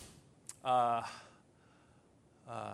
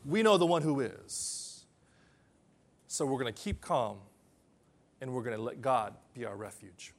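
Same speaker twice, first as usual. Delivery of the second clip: calm trust; 4 semitones lower, 3 dB quieter than usual. Retold or imitated. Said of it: "David's saying".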